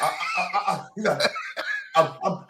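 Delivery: stuttering boxer. Retold or imitated. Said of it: "he talking like the boxer in Harlem Nights".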